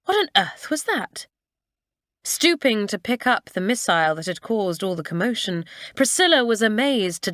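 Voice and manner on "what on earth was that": high-pitched startled exclamation; alarmed question, pitch jumping up; crying out. A narrator's reading. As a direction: cry out in indignant surprise. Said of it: "another voice crying".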